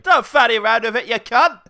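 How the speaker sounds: hammed-up furious yell; mock angry shout. Mum scolding son about the gun, mock furious shout.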